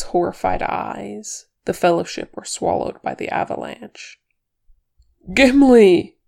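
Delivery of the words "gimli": high, loud, involuntary cry of the name GIMLI; choked cry. A narrator's reading. Thorin seeing the avalanche swallow the Fellowship, choked cry. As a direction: let "Gimli" burst out in distress. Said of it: "he choked before he could stop himself".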